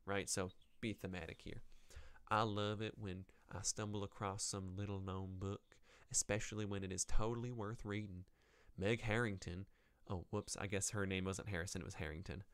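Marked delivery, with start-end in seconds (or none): 2.3-9.7 lightly put-on Southern US accent. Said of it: "we'll give her a southern accent".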